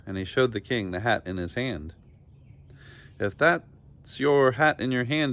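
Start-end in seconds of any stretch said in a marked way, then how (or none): 3.2-5.3 slow, louder, higher accusation; slow, stern demand. A narrator's reading. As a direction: draw the challenge out slowly. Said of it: "demanded the king".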